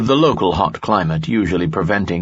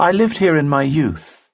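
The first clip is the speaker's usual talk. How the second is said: higher young woman's voice, lightly voiced; worried young woman, pitched up; Dina's voice; 9 semitones higher than usual. Dina speaks in story.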